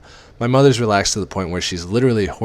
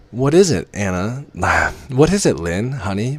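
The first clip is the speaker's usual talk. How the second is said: mother's voice; 4 semitones higher, 4 dB louder than usual. Acted. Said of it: "Mom asks".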